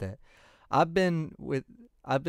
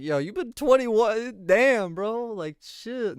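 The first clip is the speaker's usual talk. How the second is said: higher, lightly acted stunned reaction; mock surprise; 8 semitones higher, slower than usual. Reacting to a fan married twenty-one years, mock stunned. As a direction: replay the double-take, half-laughing. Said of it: "I, I was like".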